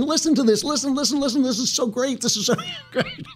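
mock his younger self babbling with excitement; hammed-up frantic enthusiasm, laughing at himself; frantic excited pleading. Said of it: "I was just so angry. I was slapping the book, going".

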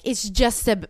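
lightly imitated French accent; mock French accent. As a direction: imitate an unimpressed French smoker. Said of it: "they go".

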